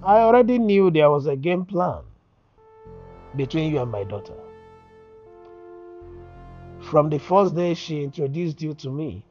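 firm, mostly loud voice; stern confrontation. Acted. Father telling his daughter's man he knew the plan, stern confrontation. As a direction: lay out the accusation forcefully.

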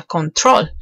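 "control" with the accent on TROL; stress on last syllable. Shown as a demonstration. Teacher showing where the accent falls, "control" stressed on TROL. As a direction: lean on the final syllable of "control". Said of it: "el acento está en la última sílaba".

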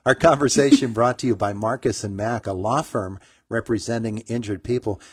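punchy radio sponsor credit, loud start; sponsor read. Real, not acted. Host to listeners, crediting the law firm, sponsor read.

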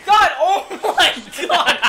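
slow, drawn-out cry through laughter; laughing exasperation. Real, not acted. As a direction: exclaim in disbelief while laughing.

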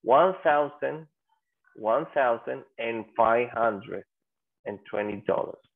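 slow "one thousand and five hundred", number read out in full; learner's literal reading. Shown as a demonstration. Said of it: "creeríamos que lo pronunciaríamos así".

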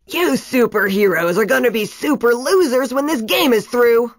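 gloating villain coach bellowing; mean coach mocking the superheroes, loud and gloating; taunting shout. A narrator's reading. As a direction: jeer it at the other team. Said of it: "Coach Sam shouted".

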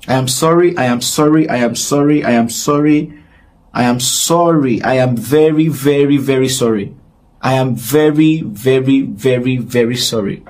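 real, insistent apology in repeated even beats; earnest repeated apology. Real, not acted. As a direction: apologize over and over, leaning on each VERY. Repeated apology to angry public.

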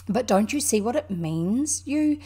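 loud, exasperated scolding; impatient cry. A narrator's reading. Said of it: "cried the Rat impatiently".

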